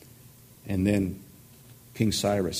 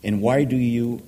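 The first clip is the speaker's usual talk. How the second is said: louder, pleading cry to God; impassioned complaint; 2 semitones higher, 4 dB louder than usual. Acted. Preacher reading the prophet's complaint, loud and pleading. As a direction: voice it like a man shouting at heaven.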